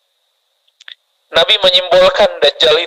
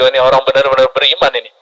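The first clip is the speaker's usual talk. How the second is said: lower, quicker aside to oneself; inner thought; 6 semitones lower, faster than usual. Retold or imitated. Preacher thinking to himself about a devout congregant, inner voice. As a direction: voice a private thought, pitched down. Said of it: "Saya katakan dalam hati".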